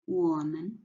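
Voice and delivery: 我们 with a full 我 and light 们; neutral-tone 们 in 我们; stress on first syllable. Shown as a demonstration. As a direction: lean on 我 in 我们. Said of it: "put the stress on the first word".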